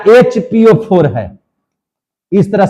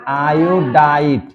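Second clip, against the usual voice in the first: आयोडाइट drawn out slowly, the long आइ clear; slow teaching answer; much slower than usual. Shown as a demonstration. Teacher contrasting the two names for students, slow and clear. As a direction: lay out आयोडाइट syllable by syllable. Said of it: "और इसको क्या पढ़ेंगे?".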